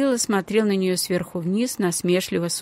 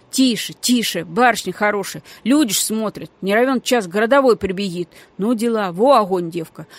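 ordinary delivery

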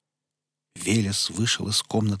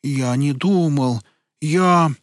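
flustered; 5 semitones higher, 6 dB louder, much slower than usual. Acted. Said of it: "Статуя казалась растерянной".

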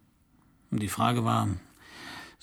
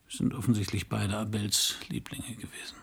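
whisper; 6 dB quieter than usual. Acted. Quiet reply in intimate scene.

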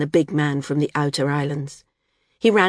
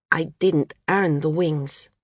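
uncertain; slower than usual. Acted. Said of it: "she said uncertainly".

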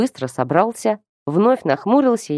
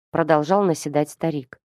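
ordinary delivery

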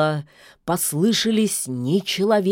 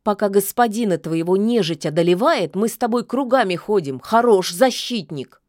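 scolding; 3 semitones higher, 4 dB louder than usual. Acted. Witch scolds the wolf.

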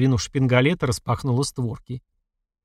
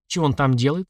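ordinary delivery

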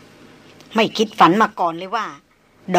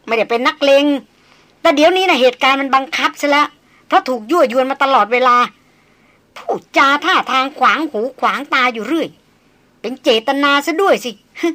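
put-on fierce young woman; 4 semitones higher, 4 dB louder than usual. Darin ranting, unnamed.

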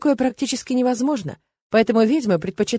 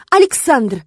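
loud, higher indignant cry of the name; indignant shout; 5 semitones higher, 7 dB louder, slower than usual. A narrator's reading. Irma names the culprit, indignant loud shout. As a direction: spit out his name in outrage. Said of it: "возмущённо выкрикнула она".

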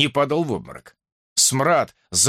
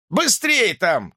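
slow, higher shout, banging on the door; 6 semitones higher, slower than usual. A narrator's reading. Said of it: "крикнул он".

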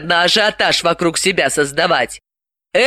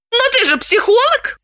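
amazed cry, pitched up high; can't believe her ears; astonished. A narrator's reading. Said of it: "поразилась Галина". (изумлённо, высоко)

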